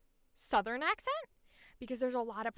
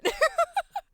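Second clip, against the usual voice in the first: real loud, high burst of laughter; 8 dB louder than usual. Real, not acted. Amazed at others' impressions.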